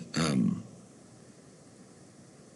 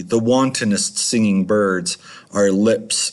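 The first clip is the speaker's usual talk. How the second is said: poem recital. Acted. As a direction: read it like a solemn poem. Reads Poe poem aloud.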